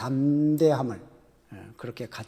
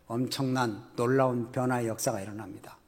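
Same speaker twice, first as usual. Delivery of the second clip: 엄청난 놀라운 변화, breathed like a secret; hushed whisper; 4 semitones lower, 7 dB quieter than usual. Acted. Preacher to the congregation, whispering the miracle.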